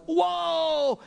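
high, drawn-out gasp of awe; knocked out of their senses; stunned whoa. Retold or imitated. A preacher acting out a stunned crowd. Crowd astonished, mouth open.

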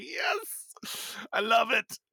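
high gleeful yes; triumphant cheer. Retold or imitated. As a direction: cheer it out in delight. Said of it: "I was like".

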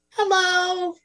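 high tiny fairy voice; a small voice whispering hello; twinkling breathy fairy whisper. Acted. GM voices little forest creature.

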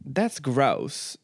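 trying out a Southern drawl; a tentative Southern accent attempt. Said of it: "isn't a word for Southern people".

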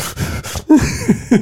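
unvoiced mock sniffles; imitated sniffling. Telling how the sister walked in, imitated sniffling. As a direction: imitate someone sniffling through tears. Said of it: "she's, like, sniffling".

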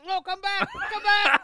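high, loud plea to come back; calling out desperately. Real, not acted. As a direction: call him back urgently. Calling friend back with trash can.

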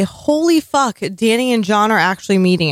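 mildly thrilled outburst; all-caps excitement. Retold or imitated. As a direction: read it like notes written in capitals. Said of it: "in all caps".

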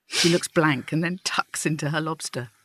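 reading a story aloud to the group; measured storytelling voice; lightly voiced reading of a short story; story narration. A narrator's reading. Reads her story aloud.

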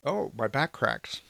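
slow words through a yawn; fake yawn. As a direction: talk while faking a big yawn. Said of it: "Fake yawn?".

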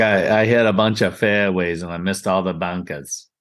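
put-on retelling a friend's TV interview in his New England accent; understated New England accent, dropping low at the end. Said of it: "It's a terrible accent, by the way".

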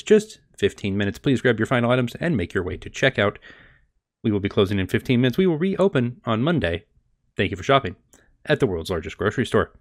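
store PA announcement voice; intercom announcement. Acted. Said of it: "the voice comes over the intercom".

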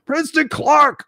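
high, loud call of a viewer's name; excited shout-out. Real, not acted. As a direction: greet a friend who just showed up.

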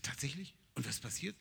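breathy whispered astonishment; hushed surprise. Retold or imitated. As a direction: lean in and whisper in disbelief.

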